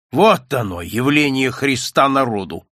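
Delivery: lightly voiced drunk sneer; a hint of a drunk mocking; slurred cynical barfly. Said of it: "пьяным голосом сказал". (пьяным голосом, слегка)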